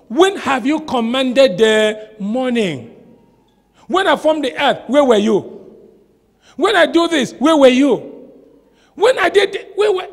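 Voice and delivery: God's challenge. Acted. God questioning Job.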